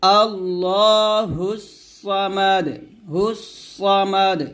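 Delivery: slow আল্লাহুস সামাদ, final দ bounced; qalqala stop. Shown as a demonstration. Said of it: "এরকম".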